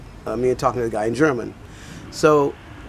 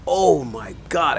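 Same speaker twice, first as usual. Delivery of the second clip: drawn-out, higher exclamation; retold shock; 4 semitones higher, slower than usual. French woman hearing of the refusal, retold shocked exclamation. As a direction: stretch it out in mild acted disbelief.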